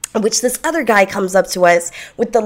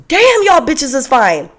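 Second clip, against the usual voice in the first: catcaller; 6 semitones higher, 5 dB louder than usual. Retold or imitated. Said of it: "And he's like".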